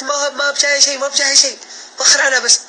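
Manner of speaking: high and loud, shooing him off; angry mother. Retold or imitated. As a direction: brush him away with a furious yell. Mother shouts him away. (الأم تطرده بصوت عالٍ غاضب)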